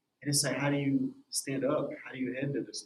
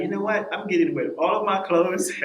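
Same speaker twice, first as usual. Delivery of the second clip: excited self-quote; 6 semitones higher, 8 dB louder than usual. Retold or imitated. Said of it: "I'm like".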